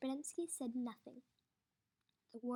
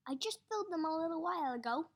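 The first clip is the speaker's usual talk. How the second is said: fast, louder protest; protesting guard; 4 semitones higher, 6 dB louder, much faster than usual. Acted. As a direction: hurry to defend himself. Podensky protesting.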